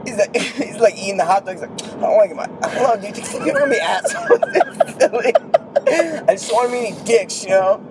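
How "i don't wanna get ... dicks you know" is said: light impression of a nervous Charlie; half-laughing mock Charlie, fretting; a hint of a worried Charlie; imitating Charlie. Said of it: "The way Charlie said that".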